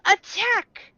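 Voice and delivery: high-pitched mock battle cry; yelled charge. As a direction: yell the order to charge. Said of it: "banded together and yelled".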